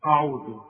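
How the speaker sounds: أعوذ said wrongly; the learners' wrong أعوذ; common mistake. Shown as a demonstration. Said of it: "الناس تيجي تقول إيه". (نطق أعوذ الخاطئ)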